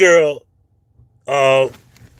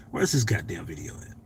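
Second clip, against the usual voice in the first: whisper; 9 semitones lower, 9 dB quieter than usual. Real, not acted. Muttering while searching phone.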